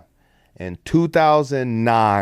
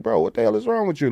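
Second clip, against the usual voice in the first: mock angry; 9 semitones higher, faster than usual. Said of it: "getting pissed".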